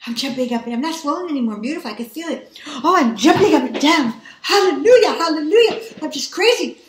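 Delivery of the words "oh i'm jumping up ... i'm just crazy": high, loud laughing hallelujah; high loud laughing praise; laughing joy. Real, not acted. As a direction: laugh out praise while jumping.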